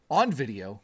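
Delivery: stretched announcer-style phrasing; odd drawn delivery. Real, not acted. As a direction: lean oddly on the word on. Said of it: "why am I saying it like that".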